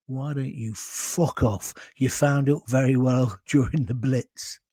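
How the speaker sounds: low, unhurried dismissal; deadpan put-down. Retold or imitated. Landlord to a German tourist asking directions, deadpan put-down. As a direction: send them packing slowly and drily.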